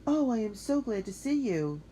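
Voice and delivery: high, loud, eager relief; girl still out of breath, glad to see her friend; breathless and glad. Acted. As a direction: gush it out still winded. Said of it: "all out of breath".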